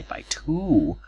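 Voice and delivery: breathy whisper, voice gone; man whispering to the girl about his house; whispered aside. Retold or imitated. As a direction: whisper it like a secret.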